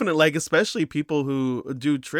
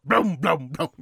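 lip-flop horse noise. Shown as a demonstration. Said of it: "Make my lips flop".

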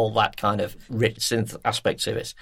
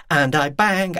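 lightly voiced line of a frustrated singer; quoted frustrated lyric; 3 semitones higher, slower than usual. Host quoting the lyric about the steering wheel, mildly frustrated. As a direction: quote the lyric with mild emphasis. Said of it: "she just goes".

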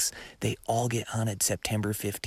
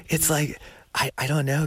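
laughing; 6 semitones higher, 4 dB louder than usual. Real, not acted. Still laughing over his bad luck.

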